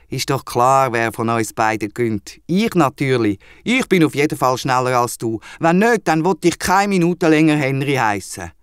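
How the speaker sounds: a touch of cocky bragging; boastful. Acted. Henry boasts to the wombat he will surely win, lightly cocky. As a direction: brag like you can't lose. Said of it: "Übermütig blöffet er".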